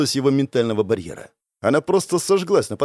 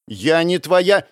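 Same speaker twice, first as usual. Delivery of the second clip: very slow, louder, each word pressed; firm refusal; 4 semitones higher, 4 dB louder, much slower than usual. Acted. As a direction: draw out each word to shut him down. Rejecting the suitor. (очень медленно, твёрдо, с нажимом)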